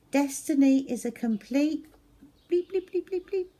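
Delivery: high, loud bleeps over a rude word; censor bleeps. Acted. Zoe reads graffiti on the toilet door, bleeping it. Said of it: "Zoe read".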